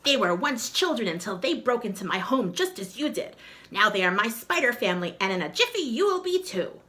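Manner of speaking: a sly witch gloating; lightly voiced gloating witch. Witch explains.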